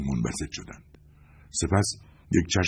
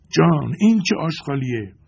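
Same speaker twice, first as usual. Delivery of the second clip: high, loud cry of pain from a burn; 10 semitones higher, 6 dB louder than usual. A narrator's reading. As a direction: yelp it out as the acid burns her hand. (فریاد دردآلود و بلند)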